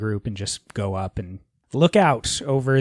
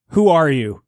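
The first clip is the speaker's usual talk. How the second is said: raised, loud demand; shouted challenge; 4 semitones higher, 7 dB louder than usual. Acted. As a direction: call out to demand an answer. Player confronts the masked figure.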